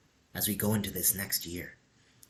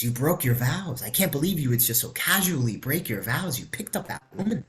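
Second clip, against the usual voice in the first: indignant accusation; 5 semitones higher than usual. Retold or imitated. Young monk accuses his teacher.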